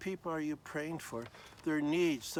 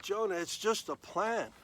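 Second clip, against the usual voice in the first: higher, louder gentle questioning; God gently questioning angry Jonah; patient God; 5 semitones higher, 3 dB louder than usual. Acted. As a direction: coax him like a patient father. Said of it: "God said".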